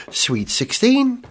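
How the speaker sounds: slow drawn-out bingo call; bingo caller. Pretend. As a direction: call out the number slowly. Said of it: "You could do F one bingo".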